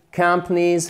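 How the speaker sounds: "Companies" stressed on "com", middle swallowed; first-syllable stress. Shown as a demonstration. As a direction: punch the start of "Companies". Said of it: "faites bien l'accent tonique".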